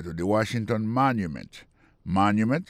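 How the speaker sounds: "Washington" and "Monument" each stressed on the first syllable. Shown as a demonstration. Teacher shows where the accent falls in "Monument", first-syllable stress. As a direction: lean on the opening syllable of "Monument". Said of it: "il tombé sur le premier syllabe là".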